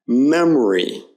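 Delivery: "memory" with the O weakened to uh; schwa in memory. Shown as a demonstration. Teacher giving a schwa example, "memory" with weak O. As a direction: say "memory" with an unstressed middle. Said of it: "it's typical in unstressed syllables".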